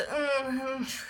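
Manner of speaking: mock whimper of a starstruck fan; soft wordless fluster; overwhelmed whimper. Overwhelmed as band members arrive.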